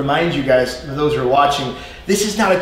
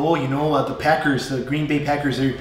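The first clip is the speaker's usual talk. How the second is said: Green Bay Midwestern, long rounded O; Fargo-ish Midwest accent, lightly put on. Teacher imitating Packers fans in Green Bay, Midwestern accent. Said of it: "They go".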